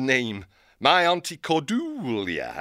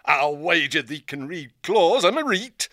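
a northern-voiced old owl hermit, gruff and folksy; 4 semitones higher than usual. Old hermit owl hailing the young hare. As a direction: greet her like a crusty old country owl. Owl insists she has magic.

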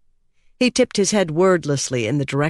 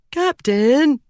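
higher, drawn-up plea to the captain; anxious, high-pitched appeal; nervous pleading; 11 semitones higher, 4 dB louder than usual. A narrator's reading. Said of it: "he pleaded with a nervous laugh".

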